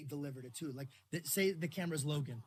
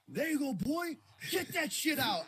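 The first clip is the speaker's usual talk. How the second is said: higher, louder psyched-up self-pep talk; hyping himself up; 7 semitones higher, 4 dB louder than usual. Retold or imitated. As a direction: cheer yourself on like a maniac. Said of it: "gassing himself up like a psychopath".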